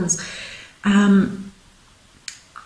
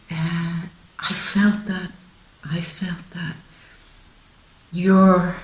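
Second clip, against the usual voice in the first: hushed, feeling each phrase as it comes; a bit emotional; 2 semitones lower than usual. Real, not acted. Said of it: "just getting a bit emotional there".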